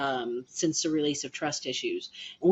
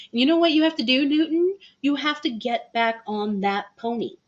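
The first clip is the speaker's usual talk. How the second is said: mock pep talk; 8 semitones higher, 4 dB louder than usual. Acted pep talk to Newton.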